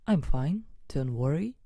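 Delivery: ordinary talk, nothing marked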